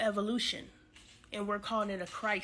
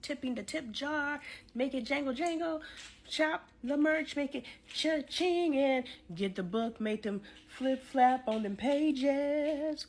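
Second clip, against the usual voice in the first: bouncy higher sales pitch, sound words played up; playful pitch; 4 semitones higher than usual. Real, not acted. Host urging viewers to tip and buy, playful. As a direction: sell it like a cheerful jingle.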